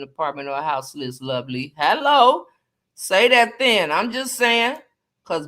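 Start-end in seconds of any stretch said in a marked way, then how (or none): 1.8-4.8 loud hype. Real, not acted. Hyping up Chris again.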